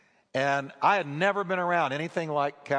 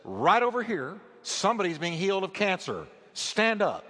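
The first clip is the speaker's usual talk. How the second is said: raised, higher call to the crowd; preacher calling out over the crowd; 5 semitones higher than usual. Retold or imitated. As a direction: call out the healing from the stage. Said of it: "And she said".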